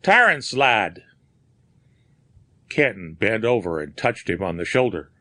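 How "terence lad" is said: a grieving cry, first word higher and louder; harsh with grief. Acted. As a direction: speak to the dead friend in grief. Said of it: "his voice harsh with grief".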